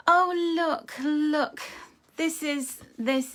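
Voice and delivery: high, loud burst of delight at the card; suddenly thrilled, point it out; excited. Real, not acted. Tarot reader spotting the Aquarius card, excitedly high and loud.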